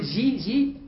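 جي with a soft zh-like j; جي demonstrated with a soft zh j. Shown as a demonstration. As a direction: say جي softly, like the French j. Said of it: "وتعطيش الجيم".

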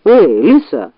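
grumbled. Acted. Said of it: "буркнул он".

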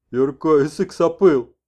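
slow, loud; shaman messenger. Acted. Messenger answers the old man, slow and loud. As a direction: say it proudly.

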